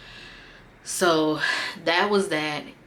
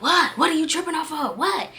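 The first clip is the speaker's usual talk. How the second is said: mock clueless boyfriend; 10 semitones higher than usual. Boyfriend's voice, playing dumb.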